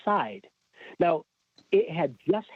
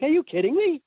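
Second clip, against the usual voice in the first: amazed disbelief; 12 semitones higher than usual. Retold or imitated. Reaction to Emmy nomination.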